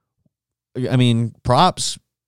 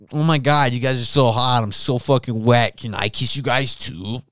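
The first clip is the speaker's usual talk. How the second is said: put-on drunk girl. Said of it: "She was super drunk about it and was just like".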